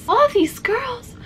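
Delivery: high, slow Crystal voice attempt; Crystal impression. Shown as a demonstration. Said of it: "how do you do a proper Crystal".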